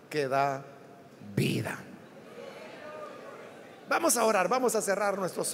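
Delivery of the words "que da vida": soft, low near-whisper; hushed. Real, not acted. Preacher ending the promise of living water, barely whispered. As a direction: let the word fall to a breath.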